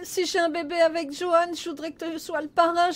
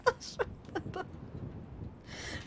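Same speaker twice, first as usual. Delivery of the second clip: dry heaving; 2 semitones higher, 13 dB quieter than usual. Acted. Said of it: "je vais vomir".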